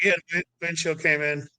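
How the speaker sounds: mildly imitated calm, unbothered report; understated, matter-of-fact calm; calm deadpan. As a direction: say it like nothing happened, lightly. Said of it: "that was the voice, that was the tone".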